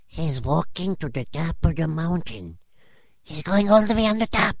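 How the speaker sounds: rising panicked shout. Acted. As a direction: alarm climbing to a shriek. Onlooker panicking at the snake.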